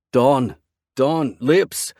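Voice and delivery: man shouting for his missing woman; hysterical shouting. A narrator's reading. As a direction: yell her name in panic. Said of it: "I shout her name with hysteria".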